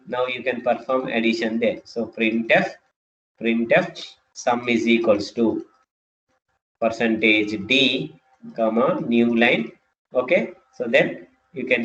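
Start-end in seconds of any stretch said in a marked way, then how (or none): 2.1-9.7 slow, spaced-out code dictation; dictating. Shown as a demonstration. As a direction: read the code out slowly.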